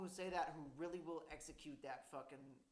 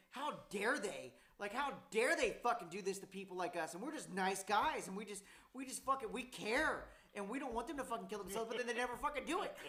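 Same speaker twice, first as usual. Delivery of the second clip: retold angry rant; 4 semitones higher, 4 dB louder than usual. Retelling his rant to a friend, heated and indignant. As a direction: relive the fury, a bit hammed. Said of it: "I got so excited and so fucking angry".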